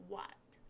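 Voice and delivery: "what" said with firm stress; strong, clear "what"; stressed word. Shown as a demonstration. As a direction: hit "what" as a key word. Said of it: "세게 읽으시는 단어는".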